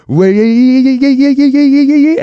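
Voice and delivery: high, loud, rapid yeahs, voice cracking; frantic panicked yeahs. Retold or imitated. Passenger mid-crash, babbling yeah in high loud panic. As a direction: babble yes over and over in panic.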